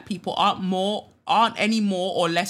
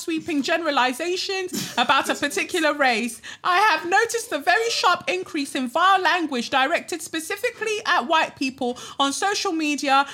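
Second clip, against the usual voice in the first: much higher, prim mock voice of a white classmate; mocking white peer; 10 semitones higher, 3 dB louder than usual. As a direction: parody the preachy classmate, high and prissy. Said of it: "One of my white peers responded saying".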